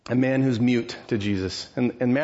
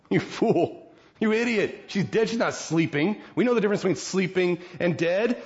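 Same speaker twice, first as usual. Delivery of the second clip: mocking mourners; 5 semitones higher than usual.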